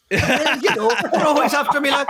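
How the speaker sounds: high, loud mock-leprechaun lilt; hammed-up impersonation over laughter; Jordan Peterson as leprechaun. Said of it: "he's not a leprechaun".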